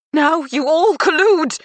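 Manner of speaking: loud, slow, high accusation; accusing shout. A narrator's reading. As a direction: accuse them all, loud. Mother accuses whole family.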